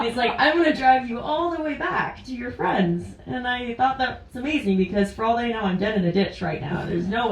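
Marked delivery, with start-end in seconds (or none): 0.4-3.1 quoting the driver while chuckling; amused retelling of his offer; laughing through quote. Retold or imitated. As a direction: let a laugh run under the line. Quoting the kind driver Ron.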